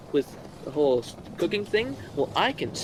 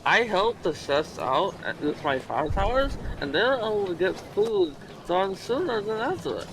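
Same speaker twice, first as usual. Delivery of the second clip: mouth full; 2 semitones higher than usual. Real, not acted. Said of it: "Sorry, I had my mouth full".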